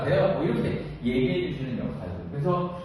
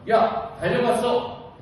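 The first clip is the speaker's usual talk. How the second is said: raised, drawn-out call to colleagues; 5 semitones higher, slower than usual. Acted. Branch chair to colleagues about calendars, calling out. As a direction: call it out slowly, a little higher.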